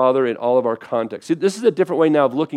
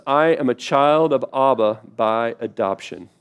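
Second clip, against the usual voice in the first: read aloud together; 2 semitones lower, slower than usual. Shown as a demonstration. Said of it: "ready for this?".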